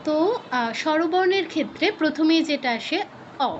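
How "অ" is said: অ said with rounded lips, short; rounded Bengali অ; Bengali o vowel. Shown as a demonstration. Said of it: "আমি বাংলা উচ্চারণ করছি অ".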